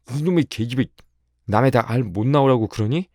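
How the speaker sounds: high, loud indignant shout; acted outburst, pitched well up; angry yell. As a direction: yell at the girl in outrage. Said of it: "소리를 빽 질렀다".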